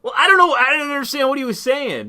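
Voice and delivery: half-laughing indignant protest; incredulous protest. Real, not acted. Protesting he misunderstood.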